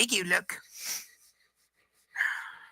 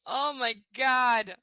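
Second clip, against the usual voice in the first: slow, drawn-out despair; exasperated; 4 semitones higher, much slower than usual. Real, not acted. Reacting to the book, slow and exasperated. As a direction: groan it out in disbelief.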